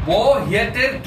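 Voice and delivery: Norwegian phrase read out slowly; slow, careful Norwegian; slow read-aloud. Shown as a demonstration. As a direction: spell it out slowly for the learner. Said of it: "মানে কি?".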